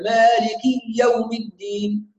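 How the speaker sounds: مالك يوم with a doubled ya between them, malikiy-yawm. Shown as a demonstration. Teacher mimicking students who double the ya. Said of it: "ياء مشددة".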